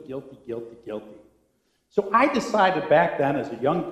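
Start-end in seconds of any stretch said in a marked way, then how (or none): 0.1-1.2 each "guilty" softer until it dies away; fading repetition. Acted. Let the repeats fade into near silence. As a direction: pastor mimics old sermons on guilt, fading repetition. Mocking old guilt sermons.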